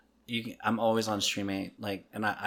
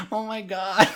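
put-on high-pitched Valley Girl through laughter; mock Valley Girl exclamation; 9 semitones higher, 3 dB louder, slower than usual. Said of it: "I heard this Valley Girl speaking French".

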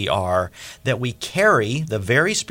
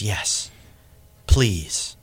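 peaceful; 4 semitones lower, much slower than usual. Retold or imitated. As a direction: let it come out calm and at rest. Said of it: "Totally peaceful".

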